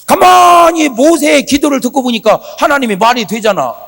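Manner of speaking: usual speaking voice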